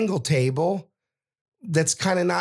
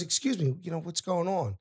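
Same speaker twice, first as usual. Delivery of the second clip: imitating a calm, soft-spoken man stepping in; quiet interjection; 3 semitones higher, 7 dB quieter than usual. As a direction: softly step into the argument. Suited man politely intervenes.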